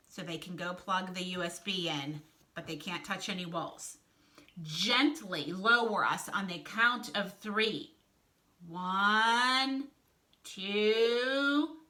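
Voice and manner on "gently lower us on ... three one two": measured countdown. Acted. Wolf counts down for the rope.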